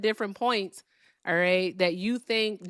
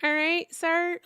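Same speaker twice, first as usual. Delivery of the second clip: exasperated outburst; 10 semitones higher, 5 dB louder than usual. Real, not acted. Exasperated at rambling caller.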